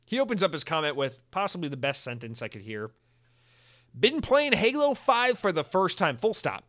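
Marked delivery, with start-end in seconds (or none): 4.0-6.6 higher, slow, mock-proper British read; slow posh British reading, a bit hammed-up; British accent. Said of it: "his Britishness".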